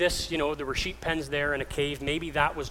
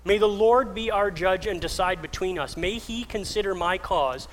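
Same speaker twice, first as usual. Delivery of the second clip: higher-pitched, impassioned declamation; calling out; 4 semitones higher than usual. Retold or imitated. David appealing to Saul for judgement, calling out. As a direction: make your case to a king, voice lifted. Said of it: "and calls out".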